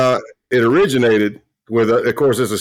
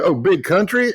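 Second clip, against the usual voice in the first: pitched way up, surprised realization; light bulb going on; sudden recognition; 8 semitones higher than usual. Retold or imitated. Colleague suddenly realizing who he means, surprised.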